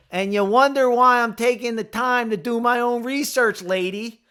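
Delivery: high, loud exasperated retort; indignant outburst. Real, not acted. Fed up with the doctor, a loud indignant outburst. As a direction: throw it back at the lady.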